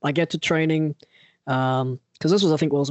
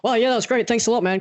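higher, falsely cheerful thanks; forced cheer; 7 semitones higher, faster than usual. Retold or imitated. Tattooed man thanking the artist with fake cheer. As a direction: fake enthusiasm to get out of the chair.

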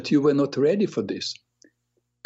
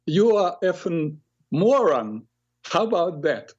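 put-on insulting kid; 5 semitones higher than usual.

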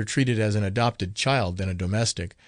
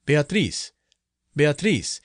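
solemn summons; 4 semitones higher, slower than usual. A narrator's reading. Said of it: "in a voice distinct and solemn".

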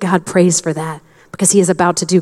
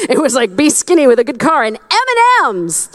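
laughing; 7 semitones higher than usual. Real, not acted. Joking about her silly life wishes.

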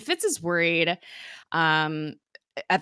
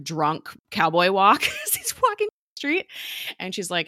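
normal talking voice

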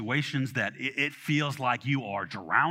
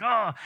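frustrated groan; 8 semitones higher, 3 dB louder than usual. Retold or imitated. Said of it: "I'm all frustrated".

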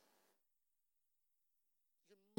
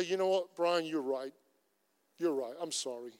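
calm apology; 2 semitones lower, 4 dB quieter than usual. Retold or imitated. Pastor calmly apologising to Brian, soft and conciliatory. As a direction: back down and make peace. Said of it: "And I could just say".

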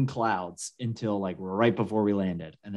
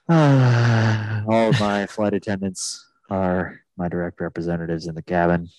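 a lightly voiced, lower captain reading the rules; airline pilot; 3 semitones lower than usual. Still mocking the pilot, lightly voiced lower captain. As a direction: drone through the cabin announcement. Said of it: "talk like".

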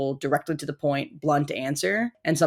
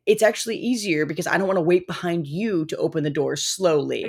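high, irritated insisting; high-pitched annoyed voice; 3 semitones higher than usual. Retold or imitated. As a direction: insist through clenched politeness. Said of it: "this high-pitched, like, annoyed voice".

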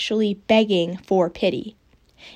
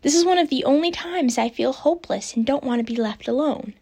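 higher, mock-dramatic reading; mocking reread; 5 semitones higher than usual. Shown as a demonstration. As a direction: ham up the clumsy line. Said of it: "spelled it out".

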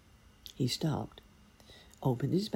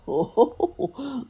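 loud high ho ho ho; giant's laugh; 11 semitones higher, 6 dB louder, slower than usual. Acted. Thunder Giant laughing at the wizard, loud and high. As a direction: laugh it out big and booming. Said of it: "laughed the giant".

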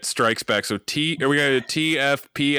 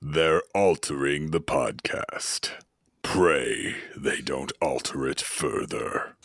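Darth Vader impression; 10 semitones lower, 4 dB quieter than usual. Shown as a demonstration. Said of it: "pretty damn good Darth Vader impression".

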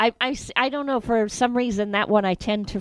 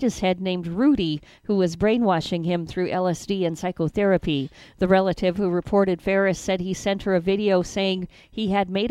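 news read. Acted. Reads news stories.

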